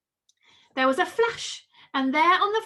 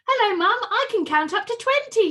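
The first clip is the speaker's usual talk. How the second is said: proud; 8 semitones higher, 6 dB louder than usual. A narrator's reading. Proud child greeting mum.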